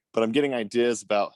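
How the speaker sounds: breathless from carrying something; out of breath. Real, not acted. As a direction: speak out of breath. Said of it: "sorry, I'm out of breath".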